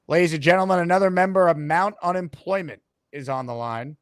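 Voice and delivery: slow, drawn-out host introduction; mock-grand announcement, stretching the phrases; show announcer. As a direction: build suspense for the next caller. Announces the next caller.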